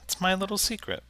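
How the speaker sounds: soft, cagey goblin; lightly voiced goblin guarding a secret. Game master voices the goblin.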